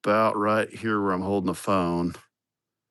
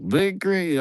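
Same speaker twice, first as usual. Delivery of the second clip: a much higher, lightly faked Spanish accent; imitating Spanish accent; 11 semitones higher than usual. Crew teasing him over his tractor, faked Spanish accent. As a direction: attempt the crew's Spanish accent, then give up. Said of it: "I can't even do the accent that they had".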